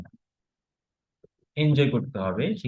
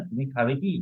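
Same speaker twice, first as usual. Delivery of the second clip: final কি short and unstressed, rising. Shown as a demonstration. Teacher showing a yes-no question, short কি. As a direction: end on a quick, rising কি. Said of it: "এটা হচ্ছে short উচ্চারণ".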